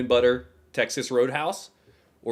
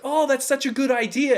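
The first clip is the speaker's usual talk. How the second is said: mock gushing praise; 11 semitones higher than usual. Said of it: "And they're like".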